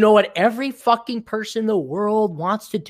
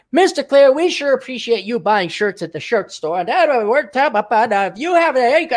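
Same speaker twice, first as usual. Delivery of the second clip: higher, sugary customer-service script, lightly mocked; scripted rep voice; 5 semitones higher than usual. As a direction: read the script like a chirpy phone rep. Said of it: "they got their script".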